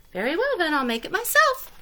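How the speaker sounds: fine, I'll do it myself; determined hen. A narrator's reading. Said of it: "said the Little Red Hen".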